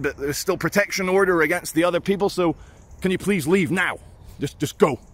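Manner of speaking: lightly voiced officer telling him to leave; police officer. Female officer ordering the vlogger to vacate, lightly voiced brisk authority. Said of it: "She's like".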